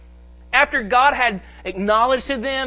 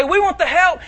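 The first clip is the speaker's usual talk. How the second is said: mock plea, raised and louder; imitated crying out; 7 semitones higher, 5 dB louder than usual. Preacher voicing Israel's plea to God, imitated crying out. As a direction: call it out as the people begging. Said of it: "So they're crying out".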